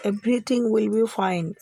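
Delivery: very slow, each word spelled out; slow teaching demo. Shown as a demonstration. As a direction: say it slowly for learners to copy. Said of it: "तो आप English में क्या बोलेंगे". (धीमे-धीमे, साफ़ उच्चारण में)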